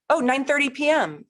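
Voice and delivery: high, loud happy cry; thrilled the time finally came; delighted. Real, not acted. Cheering a viewer who finally sent a birth time, high and loud.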